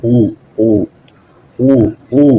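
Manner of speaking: "ஊ" said with loose, relaxed lips, near an o; "ஊ" with lips loosened, not tightly rounded. Shown as a demonstration. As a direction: let the lips go slack on "ஊ". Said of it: "தளர்வாக்கி ஊங்கிறத சொல்லி பாருங்க".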